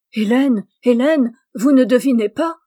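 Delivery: loud, insistent appeal; emphatic, impatient urging; urgent pleading. A narrator's reading. Urgent declaration of love in story.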